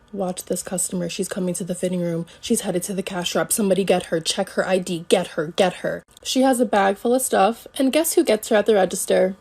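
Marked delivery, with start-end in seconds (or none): 0.1-6.0 lightly imitated low-key radio alerts; staff on walkie. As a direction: lower your volume like discreet walkie chatter. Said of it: "Everyone's on their walkie like".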